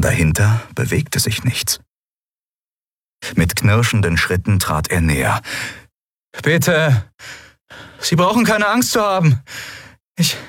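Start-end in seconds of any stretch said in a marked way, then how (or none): 6.4-10.4 higher, coaxing voice calling into ruins; pleading young man. Acted. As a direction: gently coax someone out of hiding. Kai reassures stranger.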